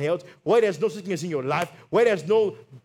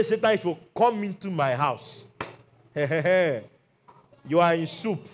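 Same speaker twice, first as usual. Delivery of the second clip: mocking dare; slower than usual. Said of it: "Just say".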